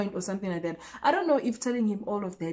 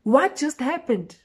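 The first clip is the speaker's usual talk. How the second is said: slower, louder, high incredulous question; louder slow disbelief; 6 semitones higher, 5 dB louder, slower than usual. Retold or imitated. Narrator realising what happened, slow and loud. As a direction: draw it out in disbelief.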